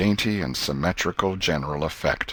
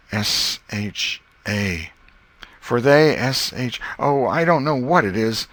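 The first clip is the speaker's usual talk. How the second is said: baffled schoolboy; 4 semitones higher, slower than usual. Acted. Tom spelling out the hint.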